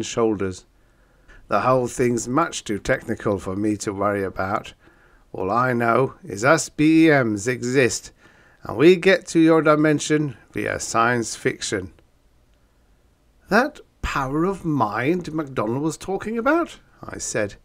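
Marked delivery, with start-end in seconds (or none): 1.5-11.9 loud, gruff storybook monster. Acted. Monbeast voiced. 13.5-16.8 shuddering. Acted. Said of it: "shuddering a bit".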